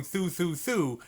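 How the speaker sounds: three even THROUGHs on one continuous breath; connected tongued syllables. Shown as a demonstration. Teacher showing how to keep blowing out, connected THROUGHs. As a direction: keep the air going through each THROUGH. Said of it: "just gonna keep blowing out".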